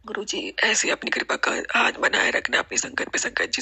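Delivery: tearful whispered plea; emotional whisper. Real, not acted. Devotee whispering to guru, close to tears. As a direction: hush it out, choked with feeling. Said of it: "मैं emotional हो रही हूँ".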